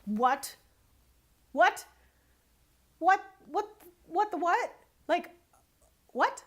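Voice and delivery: rising, incredulous what, what; stunned what. Retold or imitated. Stunned disbelief at the contractor's words. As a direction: replay the shock of hearing it, disbelieving.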